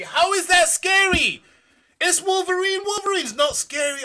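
high, loud mock indignation; high hammed-up outraged shout; mock outrage. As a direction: protest loudly, pretending to be affronted. Retorting to a kid calling it scary.

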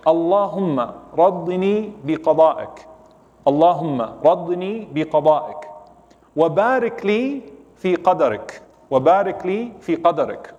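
slow, measured Arabic reading of a supplication; very slow recitation. Shown as a demonstration. Preacher reads the dua to the congregation, very slowly. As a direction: read each phrase out slowly and distinctly. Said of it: "I'll read it very slow".

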